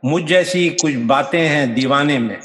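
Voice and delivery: measured ghazal recital, phrase by phrase; poetry recitation. Acted. Poet presenting a ghazal to an appreciative audience, recited. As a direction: recite with deliberate cadence.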